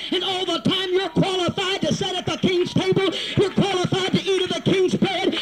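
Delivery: driving, repetitive revival cadence, building; full-force preaching. Real, not acted. Preacher assuring hearers they are qualified, full-force preaching. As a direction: press each phrase home harder.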